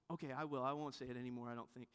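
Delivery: trailing off into a soft mumble; imitating the kid's mumbled half-promise; sheepish mumble. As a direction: promise it half-heartedly, fading away. Kid half-promising to stop.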